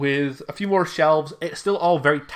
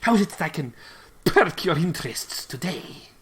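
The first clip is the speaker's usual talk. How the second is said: high, grand merchant's welcome; shopkeeper voice; 5 semitones higher than usual. Acted. GM voicing the shopkeeper welcoming the party in. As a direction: greet the party like a showy dragonborn shopkeeper. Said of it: "And he's like".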